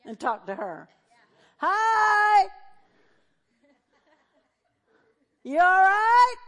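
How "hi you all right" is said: high, very loud drawn-out holler; shouting to be heard. Acted. Pastor checking on hard-of-hearing church member, loud acted shout. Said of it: "If someone has a hearing problem".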